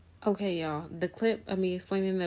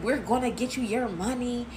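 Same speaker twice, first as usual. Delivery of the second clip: higher-pitched, mildly mocking singsong; mocking whine; 4 semitones higher than usual. Storyteller mimicking friends promising the money, mildly mocking. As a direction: imitate a whiny, repeated promise.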